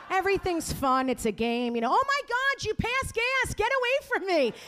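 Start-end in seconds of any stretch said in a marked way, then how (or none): 1.9-4.5 high-pitched giddy squeal; playful mock disgust. Girlfriend early in the relationship, playfully protesting.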